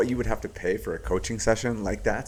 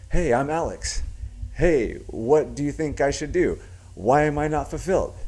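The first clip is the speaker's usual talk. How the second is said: "Hey, I'm Alex" pitched high, seeking approval; upward inflection; 6 semitones higher than usual. Shown as a demonstration. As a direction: plead "Why am I not fulfilled" in a higher, lilting voice. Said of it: "the last one is the upward inflection".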